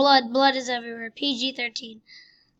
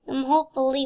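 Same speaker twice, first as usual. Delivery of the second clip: light mock Russian accent on "hopefully"; a hint of Russian accent; 3 dB louder, much faster than usual. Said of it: "why am I doing a Russian accent?".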